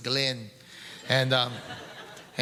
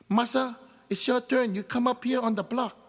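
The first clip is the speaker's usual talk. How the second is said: executioner's voice; 9 semitones higher than usual. Acted. Executioner calls Masa up.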